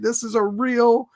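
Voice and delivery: imitated desperate shout; exasperated outburst. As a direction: plead in fed-up anguish. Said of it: "Now he's like".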